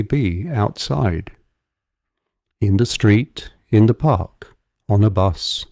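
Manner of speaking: measured visualization voice with long pauses; guided meditation. Real, not acted. Guide talking a listener through shrinking an image, calm guided meditation. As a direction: lead them gently through it, phrase by phrase.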